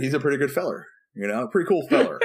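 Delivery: amused folksy repeat of "feller"; laughing on feller. Retold or imitated. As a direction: say pretty cool feller with a laugh breaking in. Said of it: "I love how you say feller".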